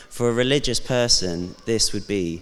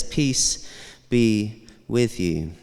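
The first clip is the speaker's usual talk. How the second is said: slow gentle blessing; much slower than usual. Pretend. Jesus' words, slowly savoured.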